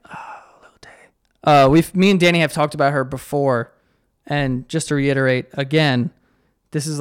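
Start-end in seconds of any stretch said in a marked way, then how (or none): 0.1-0.9 hushed unvoiced aside; whisper. Real, not acted. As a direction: breathe it like a secret. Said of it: "whispered aside".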